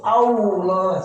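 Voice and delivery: "Allah" with pushed-out lips; pouted Allah. Shown as a demonstration. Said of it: "Itu dia monyong mulutnya". ("Allah" dibaca dengan mulut monyong)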